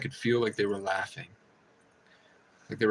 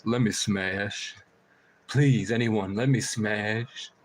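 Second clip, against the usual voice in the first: pleading crow voice; much slower than usual. Retold or imitated. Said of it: "The crows were saying".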